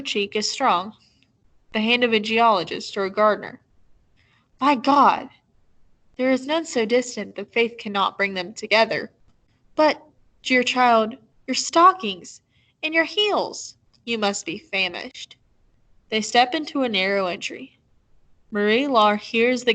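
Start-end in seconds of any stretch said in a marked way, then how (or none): 4.6-15.4 lightly voiced older woman, startled then fussing; a hint of a low, pebbly old woman; old landlady's voice. Old woman greeting the lost child at her door, mildly amazed. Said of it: "Hers is a low voice, full of pebbles".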